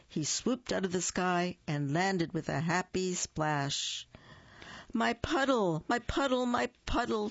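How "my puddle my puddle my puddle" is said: high chirpy bird voice; chirped. Acted. Bird lands in his puddle, chirping high. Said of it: "chirped Little Bird".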